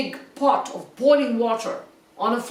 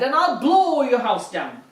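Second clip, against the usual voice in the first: growling wolf; 2 semitones higher, 4 dB louder than usual. Acted. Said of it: "he said".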